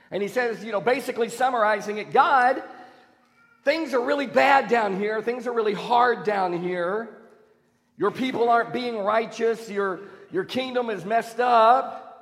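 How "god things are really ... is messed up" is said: a hint of an exasperated Habakkuk, a bit louder; lightly voiced frustrated complaint to God; complaining prophet. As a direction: plead with God, fed up.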